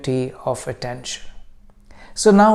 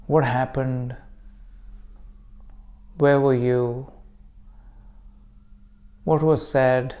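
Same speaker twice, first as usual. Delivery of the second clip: calm meditation guide with long pauses; guided meditation; 2 semitones lower, 3 dB quieter than usual. Acted. Teacher leading listeners into breath practice, calm guided meditation. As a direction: guide them gently, unhurried, leaving room to breathe.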